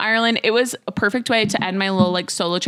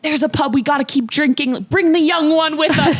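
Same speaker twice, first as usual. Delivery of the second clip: higher-pitched imitation of thick Dublin speech; attempted Dublin accent; 6 semitones higher than usual. Dublin ladies inviting her to the pub, attempted Irish accent. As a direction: have a go at a Dublin lady's accent. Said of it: "thick Dublin accents".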